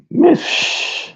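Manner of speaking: a hushed shush to calm down; whispered shush. Real, not acted. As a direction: whisper it, hushing. Shushing himself.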